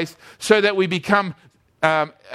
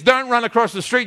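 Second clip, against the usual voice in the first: lightly voiced mum, higher pitch; mum's warning; 4 semitones higher than usual. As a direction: call a warning to your child. Mum warning child in story.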